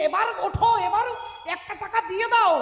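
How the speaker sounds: urgent pleading. Acted. Wife to miser husband lying on the pyre, urgent pleading. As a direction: plead with him, acted and insistent.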